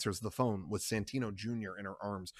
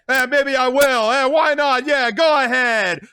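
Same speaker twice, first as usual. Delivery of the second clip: much higher, loud, jeering; loud taunt; 13 semitones higher, 12 dB louder than usual. Acted. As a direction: dare her. Carlo taunts back.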